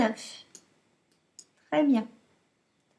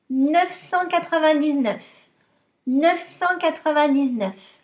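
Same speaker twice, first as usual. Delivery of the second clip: louder, clear dictation to a class; dictating; 4 dB louder than usual. Shown as a demonstration. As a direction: announce the last number for pupils to write. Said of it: "je vous dicte".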